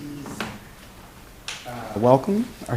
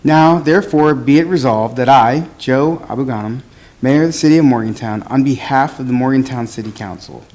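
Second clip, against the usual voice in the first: teacher voice. Real, not acted. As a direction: project every word like a teacher. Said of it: "I'll use my teacher voice so everybody hears me enunciate".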